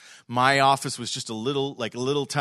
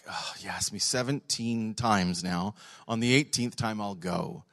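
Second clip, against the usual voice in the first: weary giving in; 4 semitones lower, 4 dB quieter than usual. Retold or imitated. Acts a worn-down invitee giving in.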